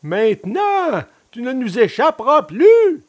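high, horrible villain voice; menacing assassins. A narrator's reading. Assassins seizing the puppet by the neck, menacing. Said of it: "les deux horribles voix bien connues lui soufflèrent menaçantes".

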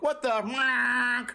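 high mouth-made car horn cutting off the words; honk-censored curse. Retold or imitated. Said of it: "a car would go by and honk".

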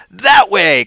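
heroic eighties hero call; rally the team like an action hero; mock-heroic battle cry. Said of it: "this heroic, like".

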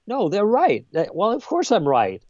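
a light imitation of the cornered critic; mock admission. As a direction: voice the opponent grudgingly giving in. Opponent forced to admit.

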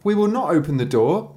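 put-on high, piping kid goats; high-pitched children's chorus; little kids. Narrator voices the little kids.

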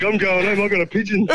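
high-pitched retold excitement, near laughter; imitating excited dad. Son retells Dad hurrying home for pigeon, imitating his excitement. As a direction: act out Dad rushing off for the bird.

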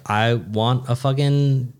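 high, eager cabana demand; excited demand. Retold or imitated. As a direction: insist on it, thrilled.

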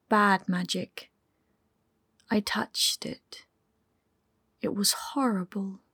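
hushed near-whisper, a touch of fear; shaken, quiet. A narrator's reading. Ollie telling his lover of the bad magic, hushed and shaken. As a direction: breathe it out, still shaken by what he felt. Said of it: "he said slowly and quietly".

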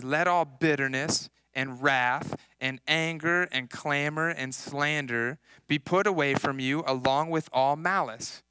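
slow, measured reading of the verse; scripture reading. Acted. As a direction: read the verse deliberately to the congregation. Reads Ephesians verse aloud.

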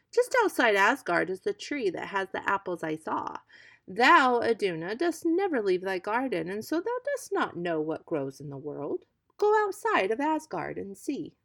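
wily god urging her to go; sly Loki. Acted. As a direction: lure her out of the garden. Loki tempts Iduna.

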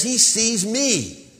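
mock triumphant Hallelujah; imitating the pastor. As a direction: preach it like the boastful pastor. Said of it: "he says".

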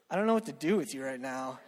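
low, soft, laughing aside; soft laughing bewildered quote. Retold or imitated. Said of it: "you're just like".

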